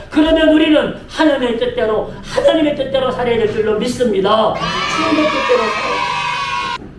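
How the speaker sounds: impassioned sermon in driving, rhythmic phrases; full-force preaching. Real, not acted. Pastor proclaiming to the congregation that God is master, full-force preaching. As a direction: build to a ringing declaration of faith.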